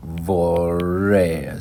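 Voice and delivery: "Vorrei" said the Italian way, vor-REI; careful Italian "Vorrei". Shown as a demonstration. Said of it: "that would be like".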